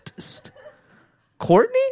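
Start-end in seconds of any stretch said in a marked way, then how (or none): 1.4-1.8 high rising call. Retold or imitated. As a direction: call her name across the room. Calling out to friend.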